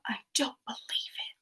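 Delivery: quiet, breathy film-quote disbelief; hushed disbelief. Acted. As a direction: say it under your breath in mock disbelief. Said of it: "but it's like".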